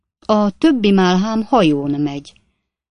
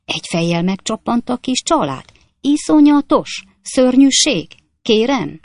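higher and louder, gleeful horror tale; lurid anecdote; 6 semitones higher, 5 dB louder than usual. Acted. Stranger tells passengers a grisly archway tale, gleeful and loud. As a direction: relish every gruesome beat.

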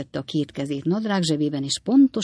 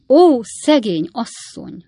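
pitying; 6 semitones higher, 8 dB louder than usual. A narrator's reading. Rogersné commiserates with Redlné, pitying. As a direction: heap sympathy on the poor woman. Neighbour pities the fainting woman.

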